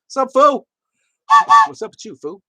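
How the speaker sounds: mock street greeting.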